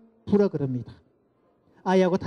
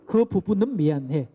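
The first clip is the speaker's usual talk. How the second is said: "그 부분은 미안해" said slowly, weighing each word; slow demo apology. Shown as a demonstration. Lecturer repeating the apology line slowly. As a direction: show the nuance, slowly. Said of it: "뉘앙스가 어때요".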